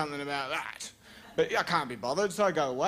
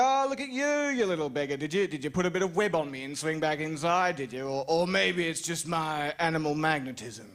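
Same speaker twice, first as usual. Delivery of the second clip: cooing at spider. Retold or imitated. Talking sweetly to a spider.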